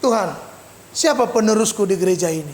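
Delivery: low-pitched plea to God; retold prayer. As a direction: drop low, as if praying. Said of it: "Saya sedang berdoa kepada Tuhan".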